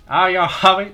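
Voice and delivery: attempted Southern accent; southern drawl. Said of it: "can't get myself to do a southern drawl".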